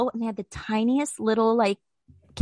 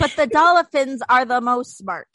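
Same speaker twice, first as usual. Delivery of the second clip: slow, deliberate quoting of "most smart"; slow, grand mock announcement of the title; mock-solemn title; 4 dB louder, slower than usual. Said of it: "That's gonna be the name of this".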